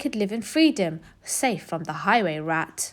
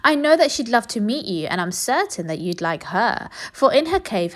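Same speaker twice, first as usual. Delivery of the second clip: sly duck; 2 semitones higher than usual. Acted. Duck tricks rat.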